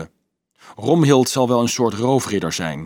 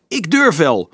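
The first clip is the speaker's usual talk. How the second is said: higher, eager outburst; excited cry; 6 semitones higher, 4 dB louder than usual. A narrator's reading. Carolus springing with excitement, calling out again eagerly. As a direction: jump in, bursting with excitement. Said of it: "springend van opwinding".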